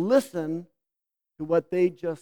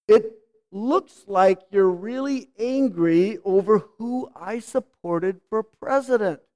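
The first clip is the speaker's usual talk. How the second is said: gentle reflective demo; slower than usual. Shown as a demonstration.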